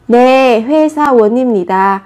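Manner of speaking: 회사원입니다 with the pitch dropping at the end as a statement; falling answer tone. Shown as a demonstration. Teacher shows 회사원입니다 as the answer, voice going down. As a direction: bring 입니다 down, a settled falling answer. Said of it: "các bạn sẽ xuống giọng".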